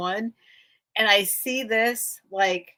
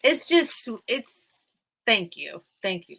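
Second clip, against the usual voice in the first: tearful. Real, not acted. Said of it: "Now I'm gonna cry".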